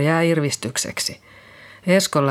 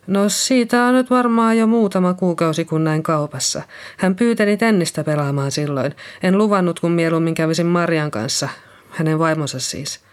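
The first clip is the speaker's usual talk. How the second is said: Liisa, shaken nurse; 2 semitones higher than usual. Acted. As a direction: speak as Liisa just come round. Liisa answers police. (kevyesti äänitetty järkyttynyt Liisa)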